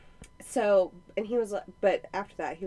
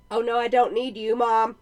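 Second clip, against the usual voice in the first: put-on kid calling out; 2 semitones higher, 7 dB louder than usual. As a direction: call out like a boy down the hall. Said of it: "he goes".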